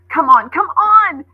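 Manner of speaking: loud, high, urgent call to hurry; urgent cry. Acted. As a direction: shout for them to come, scrambling up. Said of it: "cried Coco, scrambling up".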